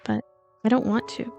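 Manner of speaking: ordinary delivery, nothing marked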